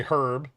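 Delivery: herb with a strong breathy "huh" first; emphasised h. Shown as a demonstration. Streamer explaining how the British say it, herb with emphasised h. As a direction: lean on the h of herb, British style. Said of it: "With the emphasis on the huh".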